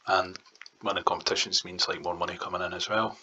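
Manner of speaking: talking while chewing gum; words round a wad of gum. Real, not acted. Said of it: "I'm chewing chewing gum down the microphone".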